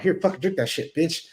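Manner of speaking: aggressive. Retold or imitated.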